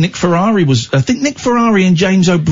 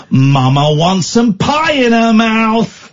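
put-on child's voice; 7 semitones higher, slower than usual. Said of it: "my seven-year-old said, and I quote".

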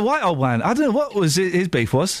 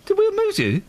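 laughing while asking; 11 semitones higher than usual. Real, not acted. Host laughing at a giggling co-host, real laughter. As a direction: question breaking up into high giggles.

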